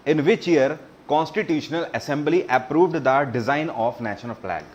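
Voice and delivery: reading the question very slowly, word by word; slow quiz read. Shown as a demonstration. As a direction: spell out the question slowly for the class. Quiz host reads question aloud. (प्रश्न को बहुत धीरे-धीरे पढ़ना)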